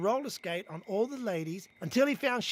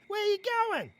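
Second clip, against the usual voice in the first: calling out; 12 semitones higher, faster than usual. Acted. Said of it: "says Leroy".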